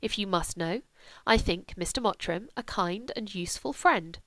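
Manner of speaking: a hint of a dry, aristocratic mother; lightly voiced composed mother. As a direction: state it quietly and firmly. Mother's measured verdict.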